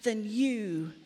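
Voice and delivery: mild haughty contempt; smug superiority. Acted. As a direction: look down your nose at them. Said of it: "And then I start to think".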